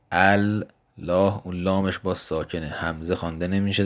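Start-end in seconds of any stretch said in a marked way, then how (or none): 0.1-1.5 الله stretched out very slowly, rising at the end; slow demonstration. Shown as a demonstration. A teacher points out the next word, stretching it out slowly. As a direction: draw out الله so every sound is heard. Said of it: "بعدش کلمهٔ الله داریم".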